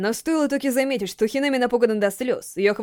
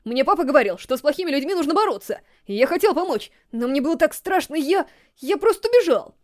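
put-on a scared boy spilling it all out; blurted confession; 4 semitones higher than usual. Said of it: "собрался с духом и выпалил".

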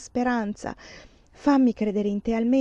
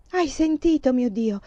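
delirious cry; 4 semitones higher than usual. Acted. Stenio begs God over Lelia, a delirious raised cry. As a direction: voice jumps high on "Hai", urgent appeal. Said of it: "Gridò Stenio delirante".

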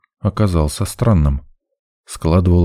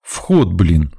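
annoyed grumble. A narrator's reading. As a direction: snap back with mild anger. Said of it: "зло буркнул я". (зло буркнуть)

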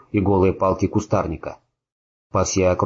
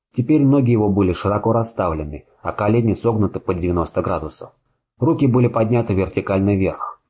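usual speaking voice

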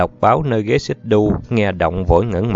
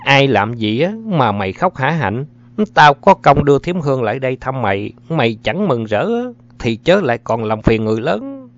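higher-pitched, mildly cross reprimand; scolding; 5 semitones higher than usual. Acted. Anh Tư to the crying girl, scolding. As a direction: tell the child off irritably.

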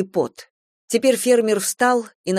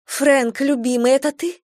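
higher, lightly voiced eager woman; woman's voice; 7 semitones higher than usual. A narrator's reading. Bathsheba calls out to Frank on the road, higher and eager. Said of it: "знакомый женский голос".

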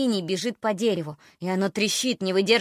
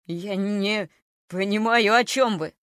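frightened man; slower than usual. Acted. Frightened homeowner answers.

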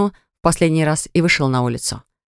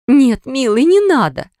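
high, louder pleading cry; begging him to stop, voice jumping high; desperate plea; 8 semitones higher, 4 dB louder, slower than usual. A narrator's reading. Wife throws herself on husband, desperate high plea.

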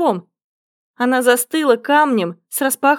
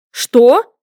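cry out; 7 dB louder than usual. A narrator's reading. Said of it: "вскричали мы обе".

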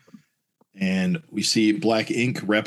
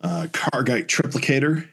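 yelling; 7 semitones higher than usual. Acted. Durlin orders her to stay, mock yelling. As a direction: call out a command in a lightly acted yell. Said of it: "the Durlin's yelling".

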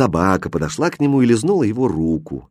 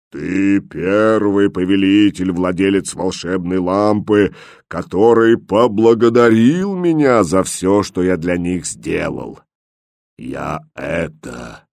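slow booming genie that fades to nothing; genie voice fading away; 3 semitones lower, 3 dB louder, slower than usual. A narrator's reading.

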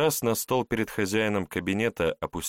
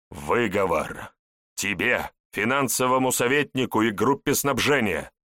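stern shout; 4 semitones higher, 3 dB louder than usual. Acted. Boss issues reprimand.

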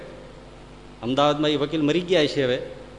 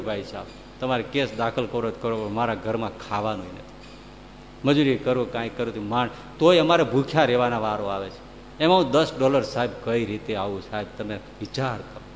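mild tearful plea; 5 semitones lower than usual. Retold or imitated. Poor neighbour pleading tearfully with Lincoln. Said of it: "રડી પડ્યો".

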